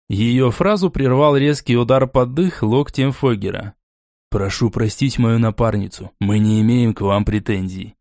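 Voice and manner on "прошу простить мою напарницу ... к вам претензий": even, slightly low; level and composed; calm. Acted. Foger smoothing things over with Borey, calm and even. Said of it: "спокойно произнёс он".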